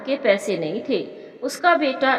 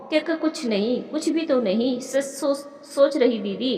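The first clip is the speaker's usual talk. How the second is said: acted stammering. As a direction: stumble lightly over the words, hiding something. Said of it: "इतनी हकला रही हो".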